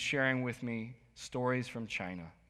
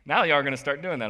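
ordinary talk, nothing marked

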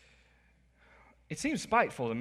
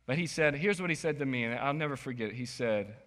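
ordinary talk

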